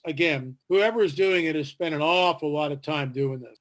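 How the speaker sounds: usual speaking voice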